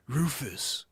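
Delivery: lightly imitated movie-star dude; half-whispered actor impression; Keanu Reeves. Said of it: "he's doing a Rufus".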